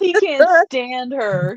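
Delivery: crying with laughter, high and loud; laughing at David hating her; laughing hard. Real, not acted. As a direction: squeal out the words through laughter. Laughing fit about David.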